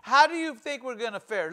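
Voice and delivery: fast, mildly anxious questions; a hint of hand-wringing worry; fretful churchgoers. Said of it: "carnal Christians or just mere churchgoers, say".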